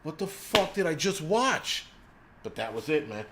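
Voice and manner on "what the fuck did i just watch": mock disbelief. Viewer baffled by the movie's dove-filled ending, slow exaggerated disbelief. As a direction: drag out the outrage like you can't believe it. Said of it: "And I'm like".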